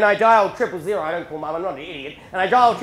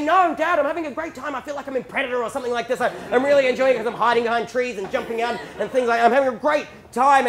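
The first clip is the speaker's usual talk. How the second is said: eager protest; 3 semitones higher than usual. Retold or imitated. Son enjoying the hunt answers annoyed dad, eagerly. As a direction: insist you're loving it, pitched up.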